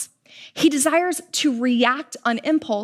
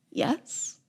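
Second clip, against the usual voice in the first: hesitant yes; 9 dB quieter than usual. Retold or imitated. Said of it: "And hesitantly".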